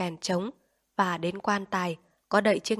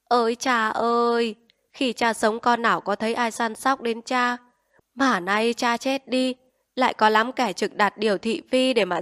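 daughter-in-law wailing pointedly at the funeral, high and loud; 4 semitones higher, 5 dB louder than usual. Acted. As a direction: wail a barbed lament at the coffin, pitched higher and louder. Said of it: "Bác Hán gái khóc".

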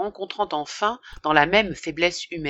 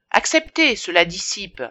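coaxing offer; 2 semitones higher, 3 dB louder than usual. Acted. Priest offering snuff.

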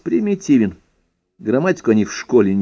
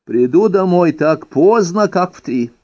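quoting herself; 6 semitones higher than usual. Retold or imitated. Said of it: "кошмарную фразу".

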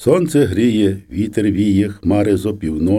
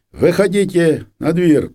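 slow, high shouted order; soldiers shouting; 7 semitones higher, slower than usual. A narrator's reading. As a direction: drag them out of the house with a drawn-out call. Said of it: "кричать". (повільний високий крик солдатів)

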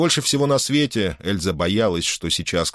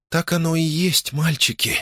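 hoarse; 9 semitones higher than usual. A narrator's reading. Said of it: "проговорила она хрипло".

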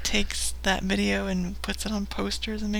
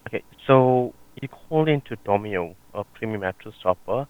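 call center agent; 11 semitones lower, 6 dB louder, faster than usual. Acted. Prank call, plays sales agent.

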